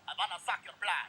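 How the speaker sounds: lightly voiced low vampire; a hint of a hammy movie vampire. Acts out a vampire bat.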